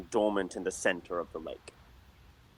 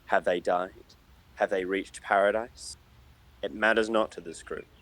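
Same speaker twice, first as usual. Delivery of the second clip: story narration. A narrator's reading. GM reads the legend to the players, solemn narration.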